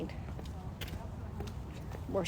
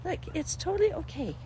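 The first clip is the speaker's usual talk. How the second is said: God comforting you; 5 dB quieter than usual. Retold or imitated. God reassuring a frightened believer, soft and tender. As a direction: comfort a scared child gently. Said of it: "He can say".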